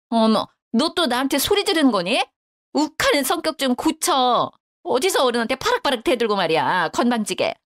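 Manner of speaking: mother-in-law scolding her for talking back. Acted. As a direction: lecture her like a rude child.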